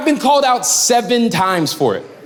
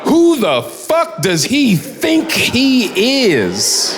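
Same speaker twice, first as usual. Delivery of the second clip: laughing repeat; 3 semitones higher, much slower than usual. Retold or imitated. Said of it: "heard an adult man say that".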